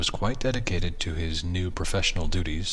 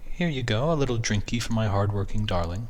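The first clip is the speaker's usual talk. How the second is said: affectionate wife voice; 4 semitones higher than usual. Acted. Wife teasing husband.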